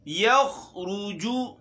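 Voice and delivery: slow, drawn-out Quranic chant; tajweed recitation. Shown as a demonstration. Teacher recites a verse for the students, slow chant. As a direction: recite it slowly, stretching each word.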